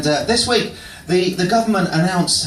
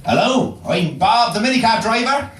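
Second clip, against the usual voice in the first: put-on country accent; 5 semitones higher than usual. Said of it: "I've also got our generic country accent".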